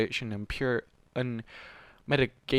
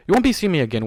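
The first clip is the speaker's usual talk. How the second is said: loud, hard and higher; blunt; 5 semitones higher, 10 dB louder, faster than usual. A narrator's reading. Warden leaving Kuno, a loud blunt dismissal. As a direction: cut her off flatly, loudly. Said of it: "Warden said bluntly".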